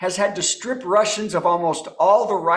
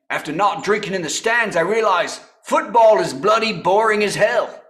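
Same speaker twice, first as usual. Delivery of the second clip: bad English accent. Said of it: "the worst English accent ever".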